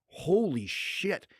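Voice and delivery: slow, drawn-out imitated amazement; awed reaction. Onlookers reacting to a fighter knocking guys out, imitated awe. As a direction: stretch it out like stunned onlookers.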